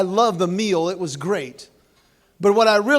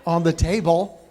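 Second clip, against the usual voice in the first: condescending; 3 dB louder than usual. Retold or imitated. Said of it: "very condescendingly go".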